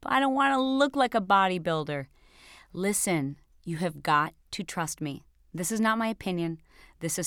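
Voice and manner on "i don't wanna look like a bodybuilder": lightly mocked client's objection; imitated reluctant client. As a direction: act out a client's protest in a slightly put-on voice. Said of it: "what you're gonna tell me".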